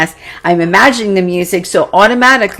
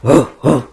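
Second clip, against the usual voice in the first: growling; 6 semitones lower than usual. Retold or imitated.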